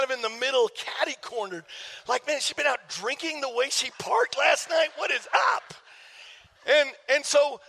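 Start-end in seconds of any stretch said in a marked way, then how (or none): 2.1-5.7 mock-outraged disbelief, pitch climbing at the end; exasperated. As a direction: rant in exasperation, rising to a high finish. Irritated at wife's bad parking.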